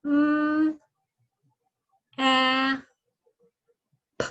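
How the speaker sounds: slow, drawn-out turtle voice; Tommy Turtle sounding out map. Pretend. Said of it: "Tommy Turtle says words very, very slowly".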